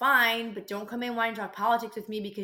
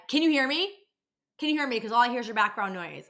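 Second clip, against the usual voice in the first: higher, louder mock caller asking again and again; imitating demanding caller; 3 semitones higher, 4 dB louder than usual. Office worker mimics a rude caller demanding attention, in a higher, louder mocking voice. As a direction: ham up the caller's impatient "can you hear me". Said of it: "she would stop and be like".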